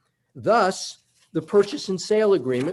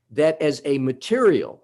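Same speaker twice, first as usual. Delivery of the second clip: material pressed out a bit louder; stress on material; 3 dB louder than usual. Shown as a demonstration. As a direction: lean on the word material for the judge. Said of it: "and I emphasize the word material".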